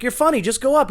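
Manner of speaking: high, loud mock encouragement; retold urging. Urges the man to perform.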